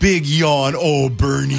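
put-on baby-talk the dog. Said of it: "dog voice".

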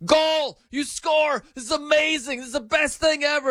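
high, gushing fan joy; mock celebration. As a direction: hype it like the best goal ever. Fans celebrating a goal.

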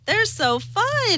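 breathy high gush, slowed and soft; sighing with delight. Real, not acted. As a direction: swoon over how fun they are. Gushing over electronic ponies.

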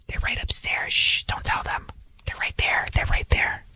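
unvoiced whisper pointing out the hiding place. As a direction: breathe it like a traitor telling the soldiers. Host acts betrayer whispering to soldiers.

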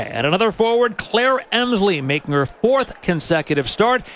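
punchy lineup announcement with swooping pitch; sports announcer. Real, not acted. Announcer reading the starting lineup to listeners, sports announcer delivery. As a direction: announce each player's name with emphasis.

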